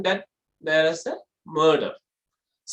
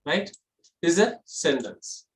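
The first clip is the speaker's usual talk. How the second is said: usual speaking voice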